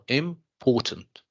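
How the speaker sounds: "important" slowly, split as im-PORtant; stress on PORT. Shown as a demonstration. Teacher confirming the answer, slow "important" with PORT stressed. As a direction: separate IM, then lean on PORtant. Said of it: "Port here is the stressed syllable".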